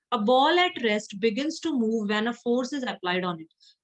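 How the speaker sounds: slow, word-by-word reading of an English sentence; measured dictation-style reading; textbook read-aloud. Acted. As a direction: read it out slowly for the class to follow. Reads the textbook line aloud.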